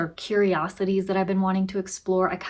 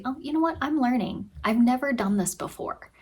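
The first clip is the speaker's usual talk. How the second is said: encouraging self-talk; 5 semitones higher than usual. Shown as a demonstration. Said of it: "you could say".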